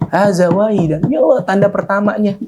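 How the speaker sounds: high, eager gasp of joy; joyful exclamation lifted high; overjoyed discovery. Acted. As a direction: blurt it out thrilled at the sign. Young man sees first sign.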